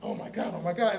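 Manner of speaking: whispered, breathless mock panic; acted-out hushed freakout; freaking out. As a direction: mutter it in a frantic whisper to yourself. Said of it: "like, freaking out".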